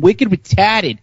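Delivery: mock Boston accent. Co-host mimics the caller's complaint about her husband, mock Boston accent. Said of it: "your accent is so bad".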